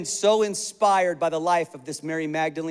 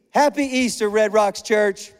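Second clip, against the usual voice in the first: preacher rousing the congregation with a loud greeting; loud happy easter; 2 semitones higher, 3 dB louder than usual. Shown as a demonstration. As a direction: shout it out to the church. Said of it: "one more time".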